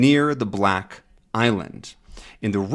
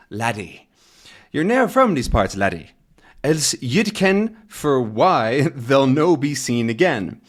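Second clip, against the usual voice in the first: put-on a lighter Scottish accent; 2 semitones higher than usual. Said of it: "thickly accented English".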